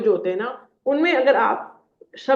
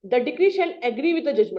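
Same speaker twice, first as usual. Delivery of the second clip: slow reading; 2 semitones higher, much slower than usual. Shown as a demonstration. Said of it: "reading the rule aloud".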